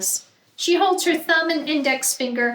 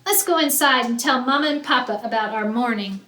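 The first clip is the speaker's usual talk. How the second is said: eager chatter; faster than usual. Acted.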